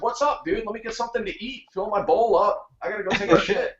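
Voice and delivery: lightly voiced carefree dog. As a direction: play the unbothered dog, lightly. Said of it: "She's wagging her tail. Like".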